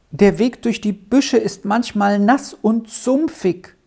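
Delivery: put-on high, plaintive boy's voice; a reluctant child's high complaint. A narrator's reading. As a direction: whine mildly, pitched well up. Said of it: "sagte Peppino mit kläglichem Ton".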